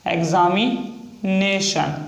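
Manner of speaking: "एग्जामिनेशन" slowly, syllable by syllable; drawn-out word. Shown as a demonstration. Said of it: "next है एग्जामिनेशन". ("एग्जामिनेशन" धीरे-धीरे)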